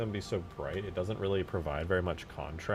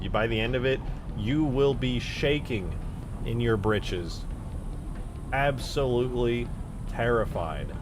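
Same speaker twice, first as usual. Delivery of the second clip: mock-dramatic warning; 4 dB louder than usual. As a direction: spell out the threat with playful drama.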